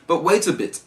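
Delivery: high, loud storybook protest; acted cry to hold on. A narrator's reading. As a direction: pipe up as the little oysters. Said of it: "the oysters cried".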